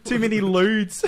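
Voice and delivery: high, slow giggling words; laughing. Real, not acted. Two friends cracking up over a film scene.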